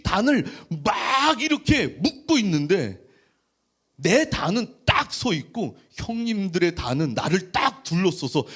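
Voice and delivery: lightly acted eager Joseph; eager dream-telling. Joseph telling his brothers his dream, lightly acted excitement. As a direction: eagerly recount a dream, with a touch of play-acting.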